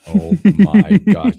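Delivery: high, slow, laughing gasp; laughing surprise. Real, not acted. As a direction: laugh it out, astonished. Shocked by shirt joke.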